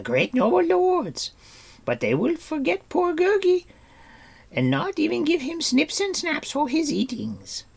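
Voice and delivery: very high, loud squeaky creature whine; a creature wailing self-pity; squealing creature lament; whining Gurgi creature. A narrator's reading.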